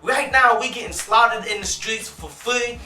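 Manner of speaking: ordinary talk, nothing marked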